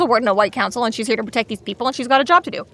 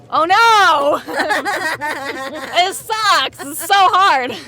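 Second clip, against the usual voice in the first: laughing mock whine; 3 semitones higher, much slower than usual. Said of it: "And he's like".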